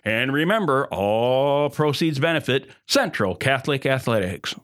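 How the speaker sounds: booming public address read; announcer voice. Shown as a demonstration. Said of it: "doing a little of your announcer voice".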